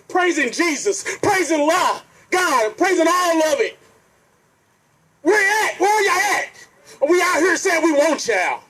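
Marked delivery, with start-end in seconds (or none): 5.2-8.6 higher voice breaking into real tears; crying out where y'all at, pleading; crying plea. Real, not acted. Speaker crying out to absent church, voice breaking.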